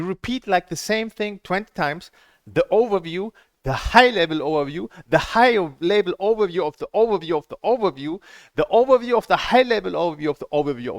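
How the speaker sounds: sarcastic tirade, speeding up at the end; mocking rant. Real, not acted. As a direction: pile it on with mounting sarcasm. Ranting mockery of repetitive course.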